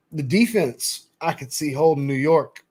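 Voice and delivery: talking through a yawn. Real, not acted. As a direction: stretch and yawn mid-sentence. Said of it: "Sorry for the yawning stretch".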